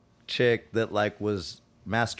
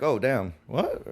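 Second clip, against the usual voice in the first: confused reaction, pitch jumping up at the end; puzzled, rising to a high questioning end; mock confusion; 3 semitones higher, slower than usual. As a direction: imitate someone caught off guard. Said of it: "confused look".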